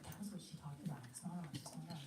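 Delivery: mock-hushed team reminder; hushed realization. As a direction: remind each other quietly. Team recalling teaching quietly.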